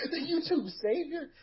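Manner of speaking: sarcastic laughing jeer; mocking laugh. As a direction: laugh it off in scorn. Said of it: "This is a promo".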